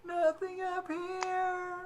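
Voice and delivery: high, very slow drawn-out answer; ghost hunter reply. Retold or imitated. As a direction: answer back slowly. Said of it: "you're about to say".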